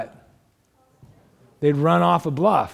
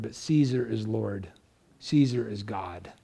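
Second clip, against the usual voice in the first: much softer, lower, sinister demand; hushed forced confession; 7 semitones lower, 8 dB quieter than usual. Retold or imitated. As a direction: drop to a dark low murmur. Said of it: "they'd say".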